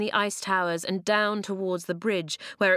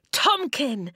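high-pitched call bursting with pride; joyful roar; 6 semitones higher than usual. A narrator's reading. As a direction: roar the name out in proud delight. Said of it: "he roared".

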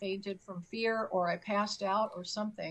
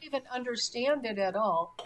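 laughing; 7 dB louder than usual. Real, not acted. Laughing at her own story.

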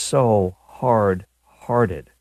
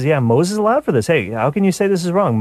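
mocking objector; 9 semitones higher, 3 dB louder than usual. Voicing Pharisees' objection.

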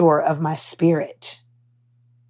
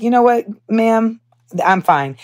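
curt dismissal; 3 semitones higher than usual. Retold or imitated. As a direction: shut her down politely but coldly. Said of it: "I was like".

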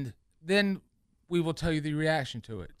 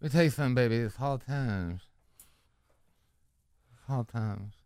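Dusty Rhodes; 3 semitones lower than usual. Acted. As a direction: draw out the words like a wrestler's promo. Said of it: "impression of Dusty Rhodes".

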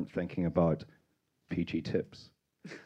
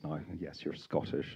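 usual speaking voice

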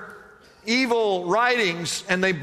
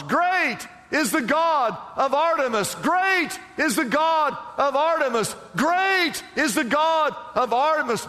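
higher-pitched imitation of a chanting crowd; mock the crowd's repeated cry, pitched up; retold crowd shouting; 5 semitones higher than usual. Preacher voices the upset town shouting in the theater, imitated shout. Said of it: "shouting at the tops of their lungs".

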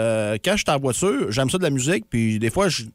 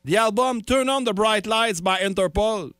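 Siri voice; 6 semitones higher, slower than usual. Retold or imitated. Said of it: "Puis là, elle me dit".

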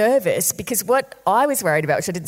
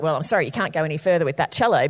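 lightly voiced officious cop, lower; mock officialdom, laying down the rule briskly; 5 semitones lower, faster than usual. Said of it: "one of those officious cops".

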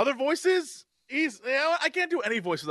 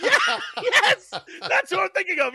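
high, laughing agreement; 12 semitones higher, 4 dB louder than usual. Real, not acted. Confirming the co-host's Bela Lugosi guess, laughing and high. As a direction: agree excitedly through laughter.

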